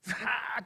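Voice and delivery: subdued, long-drawn cry of despair; mock despairing cry. Preacher imitating someone weeping deeply, subdued despairing cry. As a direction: imitate desperate wailing, held back. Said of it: "Con gritos de desesperación".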